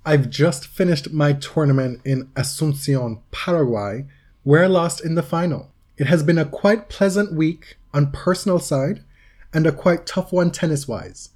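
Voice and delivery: mildly theatrical letter reading; dramatic reading. Acted. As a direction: read it out with measured, lightly dramatic emphasis. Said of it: "give you a dramatic reading".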